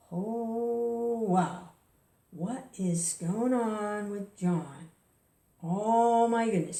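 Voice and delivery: long drawn-out, slow dismayed reaction; mock alarm. Employer reacting to a frightening worker, slow mock alarm. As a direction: stretch out the alarmed wonder, lightly acted. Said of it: "he's scaring me".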